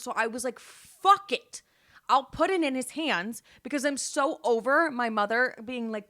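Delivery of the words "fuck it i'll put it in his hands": exasperated. Retold or imitated. Exasperated quote to mom.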